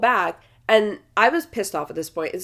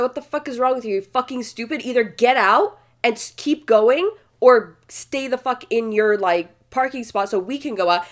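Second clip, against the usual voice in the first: retold cussing out; 3 semitones higher than usual. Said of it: "I started cussing him out".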